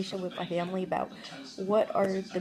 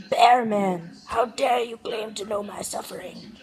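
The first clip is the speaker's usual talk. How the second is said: loud, hammed-up Russian accent; Russian accent, booming at the start; terrible Russian accent; 2 semitones higher, 5 dB louder, slower than usual. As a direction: do a badly faked Russian bear-man superhero. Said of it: "That was terrible Russian accent".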